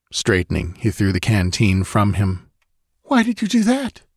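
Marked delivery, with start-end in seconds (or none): 3.0-4.0 put-on high, hushed girl's voice; anxious question; frightened girl. A narrator's reading. Girl asks Conan why he threw the canteen, high and hushed. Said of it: "she whispered".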